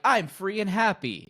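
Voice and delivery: high, drawn-out mock-happy quote; exaggerated carefree declaration; mock carefree joy. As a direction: sing out a pretend free spirit. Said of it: "it's never been like".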